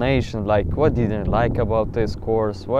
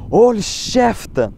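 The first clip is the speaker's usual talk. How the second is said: high, slow mock scream of Håll käften; retold scream in Swedish; 9 semitones higher, 3 dB louder, slower than usual. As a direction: shout Håll käften like the angry teacher. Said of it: "But in Swedish, she said".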